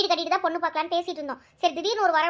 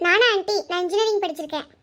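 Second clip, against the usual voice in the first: higher daughter voice, surprised to recognise him; light, eager higher voice meeting him again; daughter Anu; 4 semitones higher than usual. Acted. Daughter recognising the groom from the bus stop, higher surprised voice.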